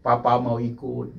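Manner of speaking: slow, drawn-out mock lament; imitated tearful plea. Preacher mimicking a weeping widow at night, understated tearful plea. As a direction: imitate a widow's monotone wail, lightly. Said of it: "dia nangis".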